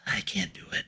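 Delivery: whispering a shy refusal; whispered. Real, not acted. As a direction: whisper it, embarrassed. Refusing to try the voice.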